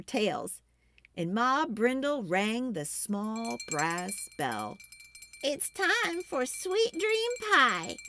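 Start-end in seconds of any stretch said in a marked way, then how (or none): 5.4-8.0 called out high and slow; Ma calling out. A narrator's reading. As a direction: call everyone to the pie, drawn out. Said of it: "she called".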